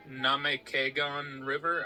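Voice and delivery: "Namekagon" sounded out slowly; careful, unsure "Namekagon"; unsure pronunciation. Real, not acted. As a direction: slowly stumble through "Namekagon". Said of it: "I don't know how to pronounce that word".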